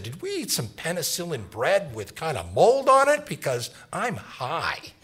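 mock worked-up questioning, then drag out the punchline; imitating someone worked up. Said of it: "getting worked up".

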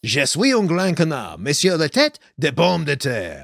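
bad schoolboy French; clumsy American French accent; foreign accent in french. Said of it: "are you speaking in tongues".

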